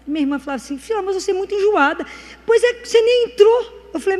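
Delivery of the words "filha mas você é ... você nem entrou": higher-pitched mock complaint; retold sisterly exasperation; exasperated sister. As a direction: nag her as an impatient sister.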